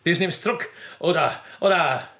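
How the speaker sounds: high, menacing demand; threatening. Acted. Poacher threatening with his rifle, high and menacing. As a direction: make him take it back or else.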